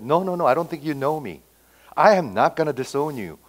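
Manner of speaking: mildly emphatic retold denial, NOT firmly stressed. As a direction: insist on "I am not gonna disown you", acting out the disciple. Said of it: "He said rather emphatically".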